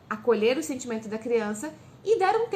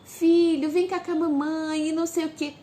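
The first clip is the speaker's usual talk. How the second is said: put-on louder sing-song coaxing, fussing over the child; mother making too much of a tantrum; overdoing the fuss; 4 semitones higher, 3 dB louder than usual. Shown as a demonstration. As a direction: make a big show of comforting. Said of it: "não fique valorizando demais a birra".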